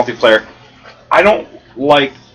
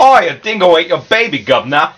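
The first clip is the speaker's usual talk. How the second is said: put-on Australian accent; 3 semitones higher than usual. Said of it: "I have the best impressions".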